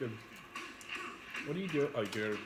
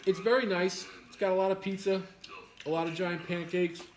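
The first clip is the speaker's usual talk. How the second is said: playful excited; 5 semitones higher, 3 dB louder than usual. Pretend. Pretend Blaketopia resident boasting.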